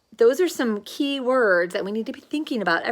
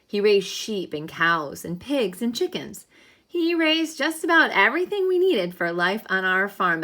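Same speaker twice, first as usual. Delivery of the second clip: put-on reading aloud to children. Teacher reads the dragon story to third graders, storybook voice. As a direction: read the farm tale to the children.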